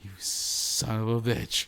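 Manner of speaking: low, drawn-out mock resentment; mock cursing. Co-host reacting to the hint of next week's movie, mock cursing. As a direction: curse slowly under your breath, in jest.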